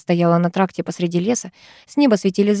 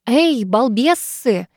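shouting; 3 semitones higher, much slower than usual. Acted. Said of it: "прокричал он".

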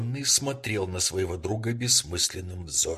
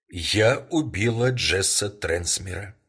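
slow, louder, firm "я убила Джесса Трансмера"; 5 dB louder than usual. Acted. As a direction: lay it down slowly and firmly, stress on "убила". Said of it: "твёрдым голосом произнесла".

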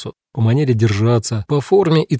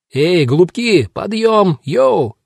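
high, drawn-up rousing cry; sing-out yell, pitched well up; hollered wake-up call; 7 semitones higher, slower than usual. A narrator's reading. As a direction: call out to rouse the next room. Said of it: "заорал снаружи Кинг Джордж".

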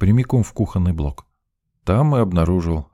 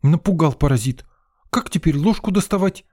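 near tears; 10 semitones higher, 4 dB louder than usual. A narrator's reading. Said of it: "Повариха чуть не плакала".

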